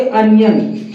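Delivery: अनियन as UN-yun; short "uh" opening on अनियन; corrected pronunciation. Shown as a demonstration. Teacher telling students what to say, corrected pronunciation. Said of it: "इसको बोलेंगे".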